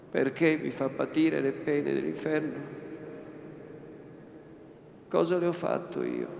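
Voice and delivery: desperate indignation. Acted. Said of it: "col tremito della paura ... indignazione disperata".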